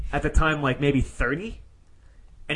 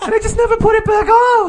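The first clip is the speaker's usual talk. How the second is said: high, loud mimicked whine of an excuse; very high-pitched voice; 4 dB louder than usual. Imitating a guy explaining his missing door, very high-pitched. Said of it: "a very high-pitched voice".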